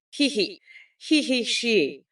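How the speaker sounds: short villain-style cackle, he he he; mocking cackle at a rival; cackling laugh. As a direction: cackle like a cartoon witch queen. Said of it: "I sound like Rita Repua when I laugh".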